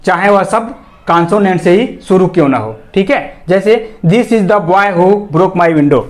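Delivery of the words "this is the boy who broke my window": slow, even read of the example sentence; example read slowly. Shown as a demonstration. Teacher reads the example slowly to students. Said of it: "example के तौर पे".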